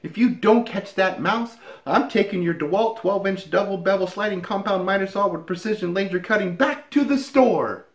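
high, exasperated wife voice; shrill-pitched plea from up the ladder; wife on a ladder demanding the mouse be caught, high and exasperated; wife fed up. Acted. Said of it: "she says".

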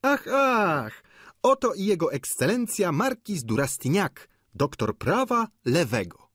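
high, exuberant announcement; boisterous student proclaiming a title; mock-grand cry. A narrator's reading. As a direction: hail the newcomer with comic pomp. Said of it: "zawołał Bianchon".

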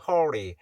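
American R in hurry; curled-tongue R. Shown as a demonstration. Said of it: "R 발음 이렇게 혀를 구부려줘서 내는 거".

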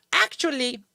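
badly faked Northern Michigan twang on "Actually"; attempted Northern Michigan accent. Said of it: "I can't do her accent".

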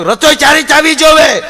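high, loud barked demand; stern order. Retold or imitated. A new husband threatens his bride about her cooking, loud and high. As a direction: lay down the law loudly.

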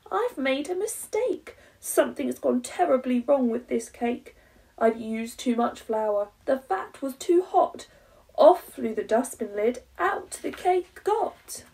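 high, loud, frantic panic; rising alarm as the cake escapes; panicked. Acted.

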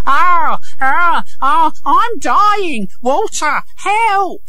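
high-pitched wail of feigned agony; put-on cries of a dying beggar; crying out. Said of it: "began to cry out".

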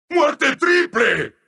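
drawn-out, rousing announcer cry; excited announcer call. Acted. Announcer hailing a triple kill, excitedly.

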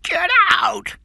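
high, prolonged furious screams; shouting. A narrator's reading. King still shouting after Cameron has left, enraged. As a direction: scream after him at full pitch. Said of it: "he was still shouting".

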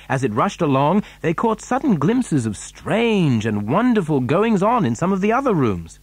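ordinary delivery, nothing marked

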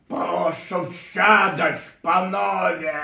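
slow, loud, commanding leader's call; Borys Jelcyn impression. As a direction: bark it out like a president ordering men into the car. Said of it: "ja pamiętam młody Borys Jelcyn".

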